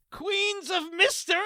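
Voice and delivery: a hint of hammed-up British, pitched high; British accent. Guessing a guest's British show from a list, in mock British accent. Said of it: "you can't say these words without British accent".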